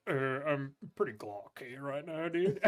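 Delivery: slow, lightly slurred stoner drawl; lazy, spaced-out stoner; stoned guy. Retold or imitated. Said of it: "He goes, he's like".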